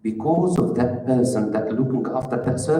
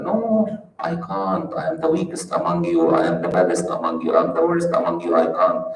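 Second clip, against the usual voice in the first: mock modesty; 5 semitones lower, 3 dB louder than usual. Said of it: "very talented in wearing a mask in his talking".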